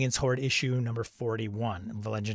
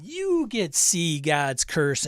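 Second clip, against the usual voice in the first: slow, stressed "you", like a host handing out prizes; talk-show giveaway; 3 semitones higher, slower than usual. Pretend. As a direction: announce it like a game-show giveaway.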